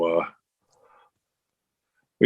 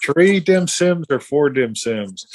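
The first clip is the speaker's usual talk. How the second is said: slow, higher-pitched mock question; mock dithering husband; 5 semitones higher, slower than usual. Husband asking his wife about dim sims, mock dithering. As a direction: drag out the choice, pitched up.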